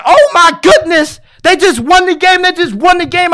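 high, loud thrilled shout of joy; excited disbelief. Retold or imitated. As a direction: relive the hype of a winning play. Reacting to game-winning catch.

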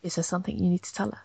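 quick, soft, robotic-sounding question. Real, not acted. Co-host's question startles listener through headphones, robot voice. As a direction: sound like a computer voice, hushed and hurried. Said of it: "you sounded like a robot voice".

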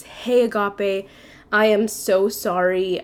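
slow, drawn-out apology, mildly acted; reluctant apology. Manager calls to break layoff news, slow reluctant apology. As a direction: imitate a boss easing slowly into bad news.

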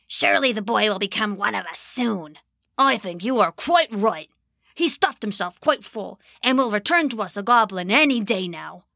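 sly, scheming goblin; lightly rasped goblin murmur; a goblin gloating over the boy. Acted. Goblin dialogue voiced.

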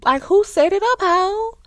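high, loud angry interrogation; furious demand. Retold or imitated. Recapping the show, the brother grilling his girlfriend, high and angry. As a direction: demand answers like a betrayed man.

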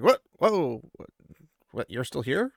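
retold startled stammering; mock surprise, halting repeats; thrown off. He finds her still in the chair, startled. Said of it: "throws him off".

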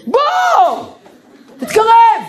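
high, commanding shout; shouting at the boy to come closer; calling out. Retold or imitated. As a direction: bark him over like an order. Calling the boy over sharply.

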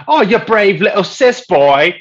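high, loud, slow mock praise; drawn-out, hammed-up jeer; mocking comedian. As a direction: imitate a comic taunting someone. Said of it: "so this comedian is talking about Ricky Gervais".

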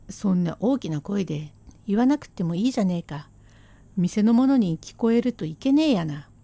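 hushing husband. Acted. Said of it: "言ったっていいよ".

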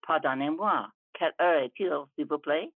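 lightly put-on high school French accent. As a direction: ask politely in schoolbook French, a hint of an American accent. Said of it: "said in my best high school accent".

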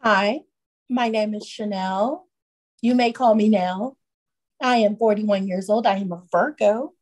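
measured, formal self-introduction; professional voice. Pretend. Guest introducing herself to podcast listeners, professional voice. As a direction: introduce yourself in a composed professional voice. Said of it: "She put on the professional voice".

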